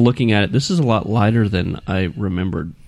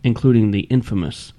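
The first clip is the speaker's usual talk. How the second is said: scary reading voice. Shown as a demonstration. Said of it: "something scarier".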